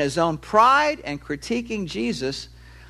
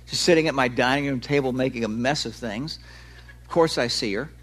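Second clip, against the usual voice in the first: flat, sarcastic duh; 5 semitones lower than usual. Retold or imitated. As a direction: roll your eyes as you say it. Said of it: "I would go".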